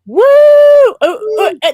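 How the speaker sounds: high, loud yelp of excitement; excited shout. Real, not acted. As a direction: burst out with a real yelp. High five attempt on camera.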